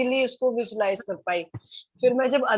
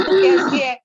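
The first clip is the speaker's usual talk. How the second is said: affectionate question; 7 semitones higher, 11 dB louder than usual. Retold or imitated. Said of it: "मैंने कहा".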